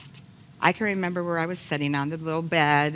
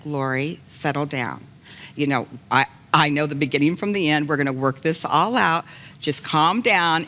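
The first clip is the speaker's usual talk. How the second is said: calm, settling reassurance; calm her down like a father; soothing fatherly voice. Retold or imitated. Heavenly Father calming an upset Lori.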